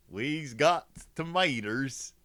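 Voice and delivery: slow, drawn-out mock hillbilly; hick accent. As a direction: stretch it out like a put-on country hick. Clowning with hick grammar, then repeats.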